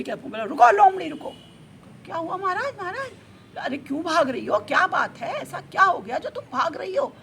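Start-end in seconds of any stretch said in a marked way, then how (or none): 0.4-1.3 loud, high call to halt; commanding shout. Acted. Lion orders the running fox to stop. 2.0-3.1 high, questioning reply; anxious fox. Acted. Fox answers the lion king anxiously. 3.6-7.2 loud, insistent questioning; demanding lion. Acted. Lion demands why fox is running.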